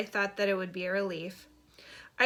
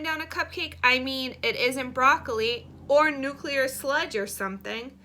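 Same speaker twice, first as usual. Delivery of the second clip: put-on slow, emphatic, louder boy's argument; dead serious; 6 semitones higher, 4 dB louder than usual. A narrator's reading. Boy defending his monster talk to a classmate, dead serious. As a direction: argue it with earnest, drawn-out insistence. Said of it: "Oliver gets dead serious".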